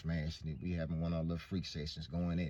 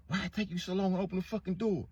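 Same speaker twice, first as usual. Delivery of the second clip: mock angry boyfriend; 10 semitones higher, faster than usual.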